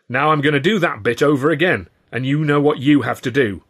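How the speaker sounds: high, emphatic stage announcement; bossy performer. A narrator's reading. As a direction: lay down the rules to the audience. Ed instructs the audience.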